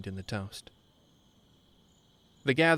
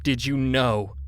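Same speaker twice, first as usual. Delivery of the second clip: loud, rough accusing bark; 3 semitones higher, 7 dB louder, slower than usual. A narrator's reading. Furious husband pinning friend to the wall, barking. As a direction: bark it in his face. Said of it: "he barked".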